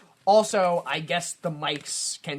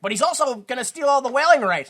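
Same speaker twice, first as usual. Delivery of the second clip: mice pleading; 8 semitones higher, 8 dB louder than usual. Retold or imitated. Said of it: "then they're like".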